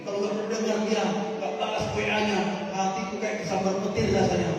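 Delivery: pleading, lovestruck youngster, mocked; mock lovesick young person pleading with the pastor; lovesick young believer. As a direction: plead like a smitten youth who won't give up. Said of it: "Kalau dulu dilarang".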